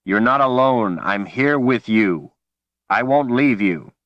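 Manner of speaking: urgent reassurance. Acted. Man pleading with panicked woman.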